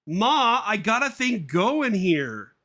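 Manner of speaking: high, loud, slow whine; whiny cartoon son. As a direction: push mum off in a squeaky voice. Son brushing off mum.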